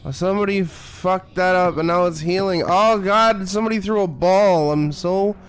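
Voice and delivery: drawn-out, hammed-up dread; mock fear. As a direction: overplay being scared, stretching the words. Hamming up fear at the game.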